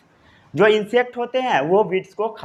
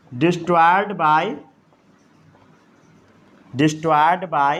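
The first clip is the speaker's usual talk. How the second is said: very slow, word by word for note-taking; slow dictation; 4 semitones lower, much slower than usual. Shown as a demonstration. Teacher dictating a note to the class, very slow. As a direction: spell it out slowly so students can write. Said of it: "इतना note down कर लिए?".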